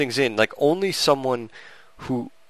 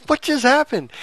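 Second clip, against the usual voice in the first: much higher, louder stunned question; retold shocked yell; 3 dB louder than usual. Viewer stunned by a sudden movie shooting, high disbelieving cry.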